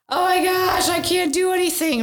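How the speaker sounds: put-on high, whiny little-kid voice; a child wailing she can't do anything; mock whiny child. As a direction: imitate a kid melting down on the floor. Child doing floppy fish.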